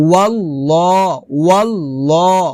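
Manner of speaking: "ওয়াল্লাহ" as wallaw, with a dark rounded vowel; heavy rounded L. Shown as a demonstration. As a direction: round the second syllable of "ওয়াল্লাহ" to "law". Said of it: "ল হবে".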